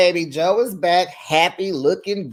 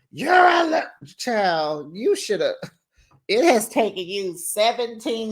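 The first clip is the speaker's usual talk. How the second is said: retold angry yell; 5 semitones higher than usual. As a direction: yell it like a cast member losing it. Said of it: "calling Ryan out his name".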